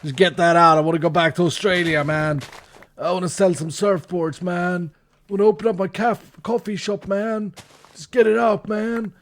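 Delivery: put-on cool American accent. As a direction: play a chill American surfer, every line ending in man. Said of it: "I had this very cool American accent".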